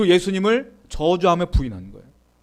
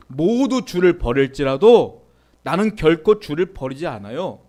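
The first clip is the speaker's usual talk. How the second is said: confident declaration; 2 semitones lower, 4 dB louder than usual. Retold or imitated. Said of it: "당당하게 외치죠".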